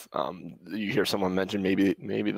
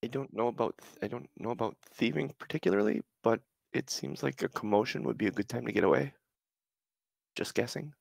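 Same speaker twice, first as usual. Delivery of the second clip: higher-pitched, tentative character voice; lightly voiced character; 5 semitones higher than usual.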